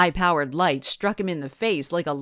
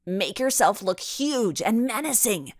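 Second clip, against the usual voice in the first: a higher, urgent call to her friend; rally her friend against the truck; crying out; 4 semitones higher than usual. A narrator's reading. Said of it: "Ava cried out".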